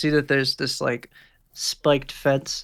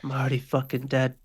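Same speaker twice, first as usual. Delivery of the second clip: crying. Acted. Thug's despair, cry heard.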